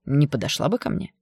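spiteful sneering question; mocking sneer. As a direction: sneer it with a nasty smirk. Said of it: "со злой усмешкой спросил он".

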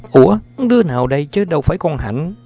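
cao giọng, nói nhanh, sửng sốt; giật mình kêu lên khi thấy đứa lạ; lắp bắp kêu lên. A narrator's reading. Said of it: "lắp bắp kêu lên". (người mẹ sửng sốt vì không phải con mình, nói nhanh)

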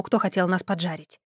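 plain reading voice

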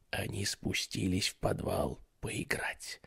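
breathy sinister whisper. Acted. Babysitter whispers the ghost story, sinister whisper. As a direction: whisper it to scare them.

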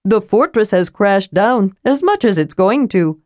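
cheerfully matter-of-fact; Tass the kender, chipper. Acted. Tass continues.

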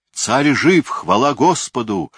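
high, loud cry of relief; guard exclaiming in alarm to the king; alarmed exclamation. A narrator's reading. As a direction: burst in shouting the news. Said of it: "воскликнул он в тревоге".

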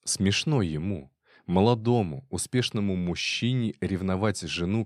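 usual speaking voice

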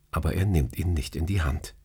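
plain reading voice

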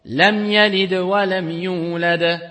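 slow recitation, the mim of lam said clearly with only a light ghunna; tajwid recitation. Shown as a demonstration. Teacher recites the example verse, slow and clear. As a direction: recite lam yalid wa lam yulad slowly, passing lightly over the mim. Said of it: "Par exemple".

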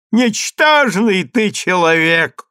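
slow, high outburst; furious-tiger contempt, narrated; scornful exclamation. A narrator's reading. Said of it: "воскликнул в свою очередь Вассос".

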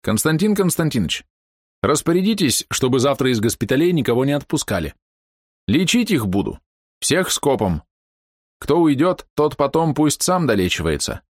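высоко и громко, вслед уходящим; крикнуть издалека, на весь перрон; крик вслед. A narrator's reading. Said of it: "крикнул вслед удаляющимся генералам". (громкий окрик вслед)

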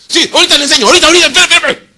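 high, loud, rushed reply; mock-panicked angel; flustered hurry. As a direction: scramble to obey in a panic. Gabriel hurrying to obey.

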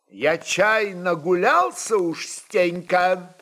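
the tsar loses patience, mildly indignant; angry exclamation. Acted. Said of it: "гневно воскликнул он". (сдержанно-гневный возглас царя)

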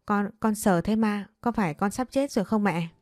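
ordinary delivery, nothing marked

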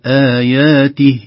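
"آياته" cut off at the ha with no long vowel, slow and falling; stopping form. Shown as a demonstration. Teacher showing how to pause on "آياته", slow and falling. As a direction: stop dead on the ha of "آياته". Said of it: "لكن لو وقفنا".

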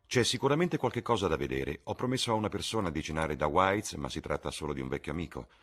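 airy upper-class charm; Lord Henry. Acted. Lord Henry voiced by narrator. (Lord Henry appena accennato, brioso)

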